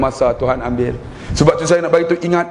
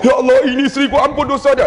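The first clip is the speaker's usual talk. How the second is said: higher, showy prayer for all to hear; husband's loud prayer; 9 semitones higher, faster than usual. Acted. A husband prays loudly for his wife first, higher pitched. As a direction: pray up high so the wife hears. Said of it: "Lepas dia doa".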